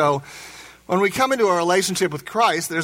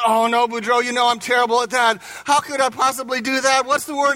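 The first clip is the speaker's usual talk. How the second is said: higher-pitched mock dismay; dismayed protest; 5 semitones higher, faster than usual. Marie protesting the spelling test to Boudreaux, mock dismay. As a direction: protest like someone hopeless at the task.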